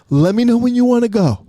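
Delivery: high sneering teacher; smug teacher. Retold or imitated. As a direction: savor the threat. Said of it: "He looked like Mister Burns".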